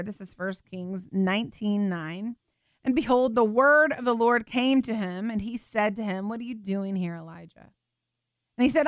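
measured, solemn Bible reading; scripture reading. Acted. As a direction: read the passage aloud to the congregation with reverence. Preacher reads 1 Kings aloud.

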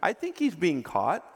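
normal talking voice

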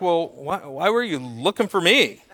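gently puzzled that anyone worried; calm reply. Retold or imitated. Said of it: "Jesus just calmly is like".

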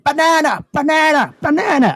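high-pitched repeated mock shout; imitated instructor's yell; retold screaming. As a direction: call out each word like a command. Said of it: "he starts screaming".

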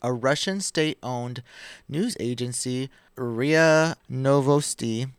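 measured, deliberate article reading; podcast host reading the headlines; news article read-aloud. Acted.

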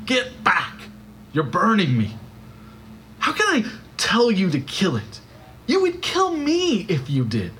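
high, strained, desperate ghost; frightened ghost. A narrator's reading. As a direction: recoil from the burning angel. Ghost cries out at angel.

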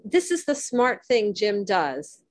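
mock praise for a foolish choice; dripping sarcasm. Real, not acted. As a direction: say it with dry sarcasm. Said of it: "I say with dripping sarcasm".

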